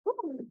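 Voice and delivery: high, soft exhaled whew; deep calming breath. Acted. Teacher collecting herself after snapping at children, deep breath out. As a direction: blow out a breath to settle down. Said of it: "Let me take a deep breath".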